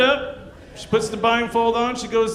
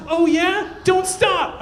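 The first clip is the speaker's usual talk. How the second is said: put-on aroused girlfriend; 9 semitones higher, much slower than usual. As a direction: play her lightly eager and high. Girlfriend voiced in joke.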